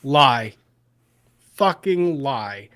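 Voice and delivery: real angry, emphatic cursing. Real, not acted. Host calling out the cross draw lie, angry. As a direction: spit out the accusation in anger. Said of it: "That made me very mad".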